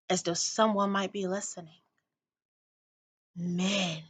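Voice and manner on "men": whispered. A narrator's reading. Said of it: "she whispered".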